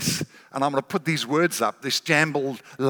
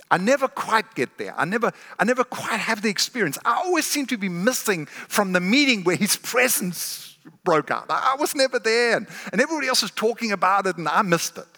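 slightly higher-pitched plaint of missing out; lightly voiced complaining believer; 4 semitones higher than usual. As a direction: voice a believer who always feels left out. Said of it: "the posture of many believers is somehow they're missing out".

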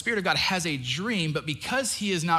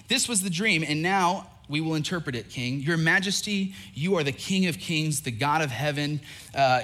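scripture reading. Acted. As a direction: read the prophecy with weight. Reads scripture interpretation.

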